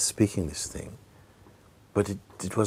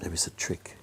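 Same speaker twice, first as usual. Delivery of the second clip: hushed, conspiratorial aside; a doubter whispering his suspicion; mock suspicious whisper; 10 dB quieter than usual.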